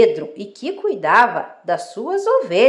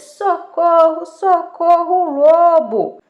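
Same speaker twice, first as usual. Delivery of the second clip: high, drawn-out, loud cries for help; repeated shouting; 7 semitones higher, 6 dB louder, slower than usual. Acted. Shepherd boy begging help as wolf attacks, shouting repeatedly. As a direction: keep calling out high, stretching each cry. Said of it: "gritando várias vezes".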